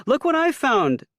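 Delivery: high, loud mother's voice; Ma's voice. A narrator's reading. Mother proudly showing her son the branches. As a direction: show off your find, voiced high.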